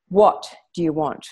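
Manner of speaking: slow, intense confrontation; slow, steady stare-down question. Retold or imitated. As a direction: hold your ground and ask it slowly. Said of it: "And I was really intense".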